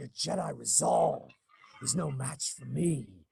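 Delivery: rough, creaky, gritty rasping character voice. You voiced both characters; show how you built one of them, in an Osi Sobeck voice, Pacino-Walken mix. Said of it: "you take a little Al Pacino".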